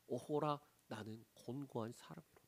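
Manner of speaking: soft, falling groan of despair; sighing lament. Acted. Worn-out believer sighing in despair before God. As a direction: let the words sink into a tired sigh. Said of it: "그 상태에서 나오는 탄식".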